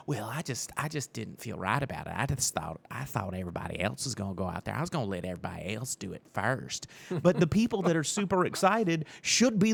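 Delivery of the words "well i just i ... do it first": softer, lower mumbling excuse; sheepish excuse. Retold or imitated. No-show customers excusing themselves to the owner, sheepish and soft. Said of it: "excuse given to the owner".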